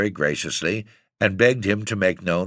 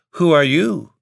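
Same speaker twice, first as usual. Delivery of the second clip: much higher, louder startled question; startled cry; 9 semitones higher, 5 dB louder than usual. Acted. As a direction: jump back in fright as you ask. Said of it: "exclaimed his highness, starting back".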